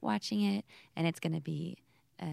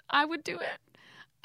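whispering; 11 semitones higher, slower than usual. Real, not acted. Whispered aside.

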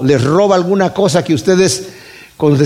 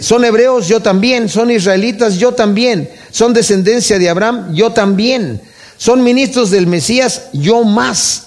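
higher, building boast answering each claim; Paul matching every claim of his rivals, higher and emphatic; 5 semitones higher than usual. Acted. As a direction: proclaim it like a proud rebuttal. Paul's boast quoted with force.

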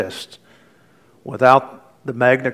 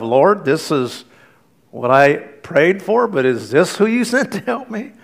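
doubtful woman praying; 3 semitones higher than usual. Acted. Woman doubts the biker in prayer.

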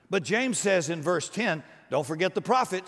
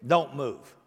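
said through a laugh, casual; God, laughing; 3 semitones lower than usual. Acted. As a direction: hand down the absurd order with a chuckle. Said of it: "God says".

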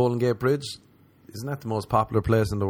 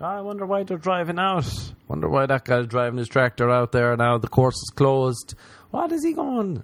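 puzzled local; 4 semitones higher, 4 dB louder than usual. Retold or imitated. Mocking locals puzzled by tractor.

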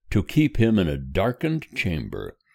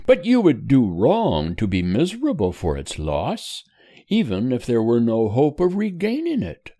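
higher, gently cheerful mother comforting her son; lightly voiced mother; 6 semitones higher than usual. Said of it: "replied his mother cheerfully".

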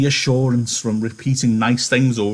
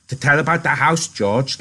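put-on higher, pleading childlike plea; begging; 5 semitones higher than usual. Lenny begging George to tell about the house. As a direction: beg like a kid asking for a story. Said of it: "Lenny begged".

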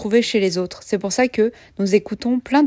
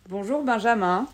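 stiff, bad robot voice; 4 dB quieter than usual. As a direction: talk like a clunky android. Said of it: "avec des voix de robots nuls".

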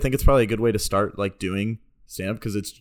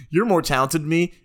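higher, loud and proud; triumphant mock roast; 6 semitones higher, 4 dB louder than usual. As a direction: shout the punchlines triumphantly.

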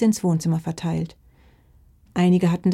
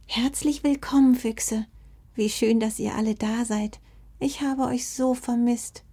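friendly welcome; 4 semitones higher than usual. Acted. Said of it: "ein sehr freundliches Naturell".

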